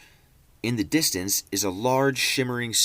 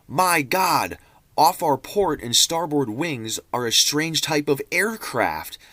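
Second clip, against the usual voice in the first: higher, louder, slower alarmed pilot log; alarmed excitement; 5 semitones higher, 4 dB louder than usual. Acted. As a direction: read it like the plane is out of control. Pilot sees strange aircraft, alarmed.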